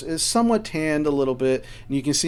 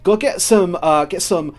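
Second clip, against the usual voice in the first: higher, louder barking of orders; bossy dwarf orders; 6 semitones higher, 7 dB louder than usual. Acted. Dwarf Lawmaster orders the guard to bring food, loud and bossy. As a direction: rattle off commands to the guard. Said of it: "And she goes".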